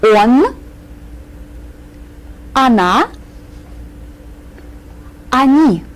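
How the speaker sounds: "Он, она, они" said carefully, word by word with long pauses; careful pronunciation. Shown as a demonstration. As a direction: model "Он, она, они" clearly for repetition. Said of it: "work on your pronunciation care-, carefully".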